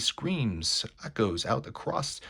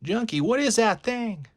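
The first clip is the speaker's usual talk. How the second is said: alarmed shout; 11 semitones higher, 6 dB louder than usual. Acted. Goon alarmed at the beast.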